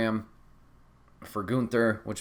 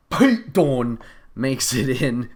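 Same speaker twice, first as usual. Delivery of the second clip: excited reveal; 3 semitones higher, 9 dB louder, slower than usual. Real, not acted. Surprise interference reveal.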